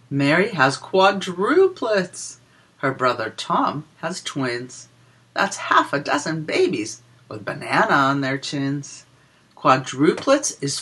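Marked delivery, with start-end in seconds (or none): 0.1-9.1 put-on lilting read-aloud for small children; a sing-song rhyme for little listeners; reading a picture book rhyme. Reads rhyming counting book verse.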